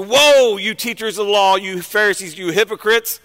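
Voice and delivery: going off on them. Acted. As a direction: cry out the woe, then list the accused. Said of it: "he goes off on the Pharisees".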